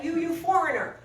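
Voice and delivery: put-on aggressive drunk. Drunk laborer confronting the man who stood up, aggressive. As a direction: act out a belligerent laborer's jab. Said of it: "who's really aggressive".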